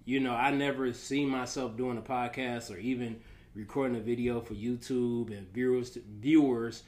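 speaking around retainers; wearing a retainer. Real, not acted. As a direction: talk with retainers in. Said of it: "I got my retainers in".

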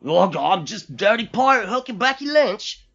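high, loud Irish caricature; mock Irish accent. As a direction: ham up a stereotyped Irish brogue. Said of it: "'Cause she's fucking Irish".

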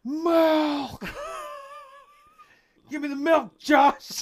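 high, loud crying shout; screaming. Pretend. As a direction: wail like a tantrum. Mock screaming argument.

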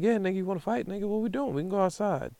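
a hint of a drunk rival's yell; mild mock yell. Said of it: "Sean is yelling at the top of his lungs".

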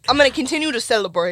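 fast breathy whisper. Pretend. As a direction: hush it out quickly. Whispered repeat of line.

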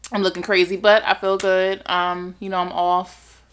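speaking with stitches in mouth; after wisdom teeth. Real, not acted. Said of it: "I'm coming to y'all with stitches in my mouth".

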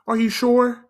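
put-on high, sweet old lady. Old woman fretting over a boy, high and sweet. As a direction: coo it like a worried grandma. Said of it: "she's like".

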